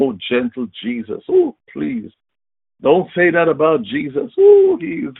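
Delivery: mocking. Mocking timid believers.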